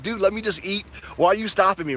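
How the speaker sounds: irritated protest. Retold or imitated. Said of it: "I'm just irritated".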